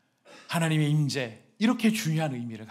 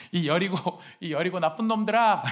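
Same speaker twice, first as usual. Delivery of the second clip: mock curse; 4 semitones higher than usual. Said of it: "이렇게 욕을 한 것 같지는 않아요".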